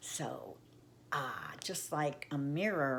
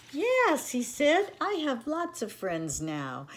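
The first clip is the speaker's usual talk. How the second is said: happy cry; 8 semitones higher, 6 dB louder than usual. A narrator's reading. Little Beaver happy with friends.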